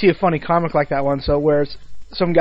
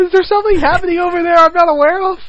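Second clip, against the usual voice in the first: suspicious; 11 semitones higher, 4 dB louder, faster than usual. Real, not acted. Suspicious high teasing.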